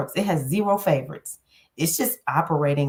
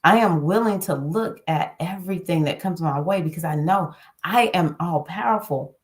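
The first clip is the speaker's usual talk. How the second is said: affirmation demo. Shown as a demonstration. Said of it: "I want you to speak into yourself".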